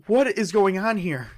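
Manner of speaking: high, distressed acted question; tearful disbelief. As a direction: act out tearful confusion. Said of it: "she's in tears".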